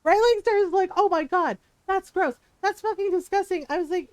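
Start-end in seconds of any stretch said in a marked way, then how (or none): 1.0-3.7 higher-pitched mock outrage; disgusted complaint. Coworker reacting to Ron farting at lunch, disgusted. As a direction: imitate a grossed-out coworker.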